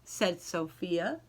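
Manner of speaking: slow, lilting read-aloud voice; gentle picture-book narration with rhyming lilt; storybook reading. Acted. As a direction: read it to a class of young kids. Teacher reads picture book aloud.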